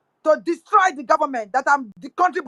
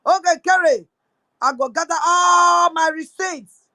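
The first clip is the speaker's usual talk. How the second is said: shouted threat; 2 semitones higher than usual. Real, not acted. Threatening minister with her receipts.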